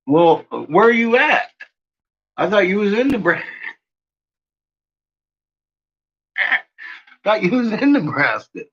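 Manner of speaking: talking round a piece of candy; mouth full. Real, not acted. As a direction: speak with candy in your mouth. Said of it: "Christmas candy in my mouth".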